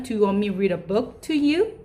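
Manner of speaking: very slow, clear model sentence; slow teaching demo. Shown as a demonstration. Teacher modelling a question for daycare children, very slow and clear. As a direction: lay each word out for the class. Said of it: "라고 말씀하실 수 있어요".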